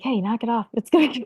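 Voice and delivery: half-joking telling-off; mock yelling. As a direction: pretend to yell at a friend, cracking up at the end. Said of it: "yell at her and be like".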